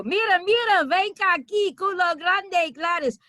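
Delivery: high, loud catcalling Hispanic guy voice. Retold or imitated. Mimicking the guys on Hoe Avenue calling after her, high catcall. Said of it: "follow me around and go".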